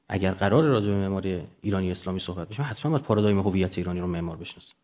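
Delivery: ordinary talk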